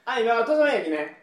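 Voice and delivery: casual Kochi accent; relaxed Tosa-ben from Kochi; Tosa dialect. Real, not acted. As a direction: switch into local Tosa dialect.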